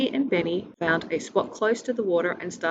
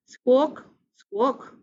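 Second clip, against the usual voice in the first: high, louder gull cry; seagull squawk; 5 semitones higher, 4 dB louder than usual. Acted. Seagull calls out near the sandwiches, squawking. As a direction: caw like a hungry seagull.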